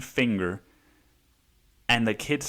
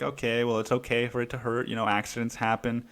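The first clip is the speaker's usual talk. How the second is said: softly reassuring, imitated parent; gentle, matter-of-fact comfort; understanding mother; 4 dB quieter, faster than usual. Imagined empathic mother comforting child.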